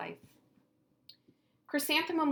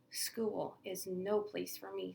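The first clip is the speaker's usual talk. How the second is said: glum complaint; 3 dB quieter, slower than usual. Acted. Sad child complaining.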